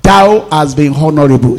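slow, solemn scripture read. Acted. Pastor reading Isaiah to congregation, slow and solemn. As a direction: draw out each word of the verse.

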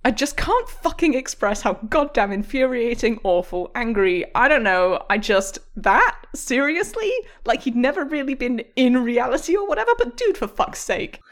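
acted, mildly worked-up exasperation; exasperated rant. Host reading an angry Reddit post aloud, exasperated. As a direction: read it as a sputtering, incredulous rant.

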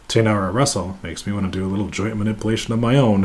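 normal talking voice

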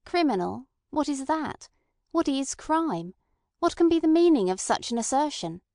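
cool scorn rising in pitch; scornful questions. A narrator's reading. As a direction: toss each question back with contempt. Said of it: "with dispassionate scorn".

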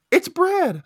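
high, loud gasped announcement; dramatic reveal. Real, not acted. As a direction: announce him like a shocking twist.

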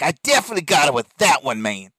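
put-on light New York accent, fast. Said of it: "in the New York accents".

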